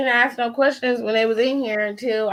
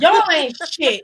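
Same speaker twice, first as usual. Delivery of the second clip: laughing; 5 semitones higher than usual. Real, not acted. Laughing protest.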